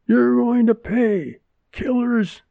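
high, loud, slow furious shriek. A narrator's reading. Furious neighbor shrieks at Wilma, high and loud. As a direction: screech the threat at the door. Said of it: "the woman shrieked".

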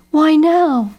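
put-on a kid crying out in despair; cried out. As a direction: Jeb cries out at the bad news. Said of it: "he cried".

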